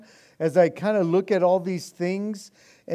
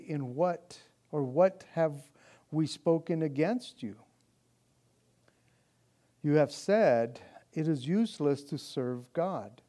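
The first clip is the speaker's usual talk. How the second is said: measured, slightly lower reading voice; solemn Bible reading, softer at phrase ends; scripture reading; 3 semitones lower, 4 dB quieter than usual. Acted. Reads scripture passage aloud.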